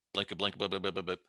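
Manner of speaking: quick mouthed phone-dialing noises; mock keypad beeping; imitated dialing beeps. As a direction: rattle off pretend dial blips.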